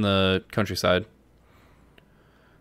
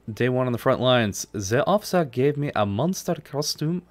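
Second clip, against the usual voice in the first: badly faked German accent, sing-song; attempted German accent. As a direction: have a shaky go at a German accent. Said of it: "I can't do a German acc-, accent".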